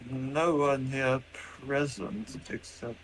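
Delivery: slow robot voice, drawn out; robot character. Acted. Robot looks round for the master, slow robot voice. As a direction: scan slowly as a machine. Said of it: "He's like".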